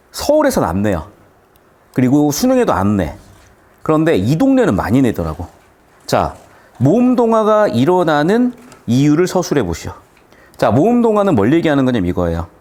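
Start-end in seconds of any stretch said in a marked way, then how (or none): none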